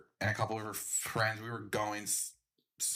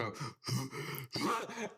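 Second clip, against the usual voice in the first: retching gasp; 3 semitones higher, 4 dB quieter than usual. Retold or imitated. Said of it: "my body goes like".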